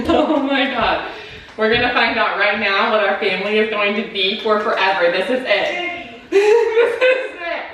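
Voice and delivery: high, loud, giddy anticipation; excited. Real, not acted. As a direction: build up the thrill.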